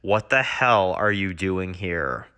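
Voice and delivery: low, slow, menacing demand; lightly voiced stern Rick; hard Rick challenge. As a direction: growl it down the barrel. Rick points Colt Python at Dwight.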